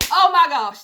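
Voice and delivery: loud, high "Oh my gosh"; thrilled. Real, not acted. Reader thrilled by the love reading, loud. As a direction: gasp it out in delight.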